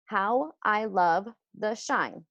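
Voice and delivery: slow, each syllable spaced out; slow syllable-by-syllable teacher count. Shown as a demonstration. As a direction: tap out every syllable slowly for the class. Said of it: "let's count those syllables".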